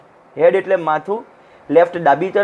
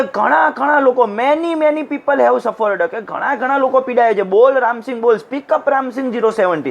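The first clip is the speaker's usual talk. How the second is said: higher voice, weight on "Many, many" and "ઘણા, ઘણા"; stressing each word; 4 semitones higher than usual. Acted. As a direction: press "બોલ" and "speak up" insistently. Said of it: "દરેક શબ્દ ઉપર ભાર મૂકી મૂકીને".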